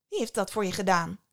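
put-on a touch of drunken slur, quick; tipsy goddess home from a feast; lightly slurred drunk Venus. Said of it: "vroeg ze met een dikke tong".

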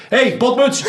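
high laughing jeer; taunting call. Retold or imitated. Heckling the coach from behind the dugout, high and laughing. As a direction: call it out to mock him, then duck. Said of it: "zei ik".

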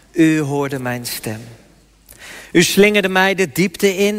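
slow, solemn Bible reading with long pauses; scripture reading. Acted. Preacher reads Jonah's prayer to the congregation, solemn. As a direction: read Jonah's prayer as a lament.

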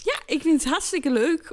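gushing that comes across as sarcastic; sarcastic-sounding enthusiasm. Real, not acted. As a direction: say you love it, sounding faintly insincere. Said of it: "Waarom klonk dat super sarcastisch?".

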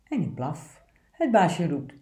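steady, obedient picture-book reading; poem read aloud. Acted. Presenter reads the good dog poem aloud, earnest reading.

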